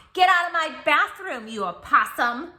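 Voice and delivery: high, loud playful yell; mock shout. Child yells the opossum out of the bathroom, high mock yell. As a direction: shoo him out with a big shout.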